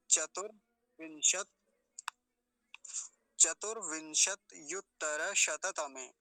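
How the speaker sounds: slow, word split piece by piece; teacher's slow syllable-by-syllable model; broken into parts. Shown as a demonstration. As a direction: say it in clear separate chunks. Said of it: "ऐसे तोड़ लेंगे".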